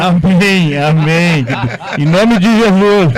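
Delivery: loud, slow fervent amen. Real, not acted. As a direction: proclaim it like a believer. Fervent amen to church invite. (amém fervoroso e lento)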